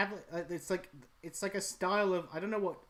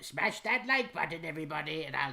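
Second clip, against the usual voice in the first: Kingpin YouTuber. Pretend. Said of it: "if Kingpin had a YouTube channel".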